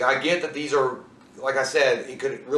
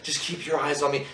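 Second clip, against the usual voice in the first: softer, soothing imitation; imitating calm; 5 dB quieter than usual. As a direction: keep it quiet and unruffled. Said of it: "'Cause she was so calm".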